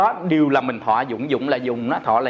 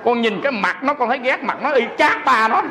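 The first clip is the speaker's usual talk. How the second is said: chuckling through the words, pitched up; laughing; 5 semitones higher than usual. Real, not acted. Monk laughing to the audience as he retells her confession. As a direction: laugh along while telling the mother's story.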